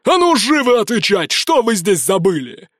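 sudden yell. A narrator's reading. Gang leader suddenly yelling at prisoners, demanding answers. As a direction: bark the order at the captives. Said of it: "внезапно заорал".

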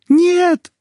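very high, loud shout; shouting after. Acted. Wife shouts after husband running upstairs, desperate. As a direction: cry out desperately after him. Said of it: "крикнула я вслед".

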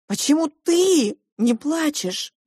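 high, slow tearful question. Acted. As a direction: ask through tears. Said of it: "В слезах повернулась я".

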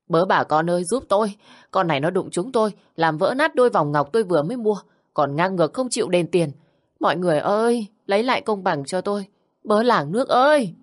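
hammed-up cry to the whole street; crying out for help. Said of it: "la làng lên". (la làng ầm ĩ, giọng cao)

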